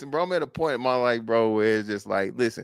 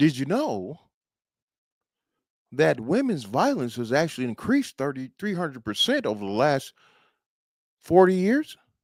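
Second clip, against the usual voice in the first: curious, genuinely inquisitive tone, pitched up; 5 semitones higher than usual. Showing how to deliver a fact as a question: inquisitive questioning tone. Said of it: "If you deliver it in a, you know, inquisitive manner".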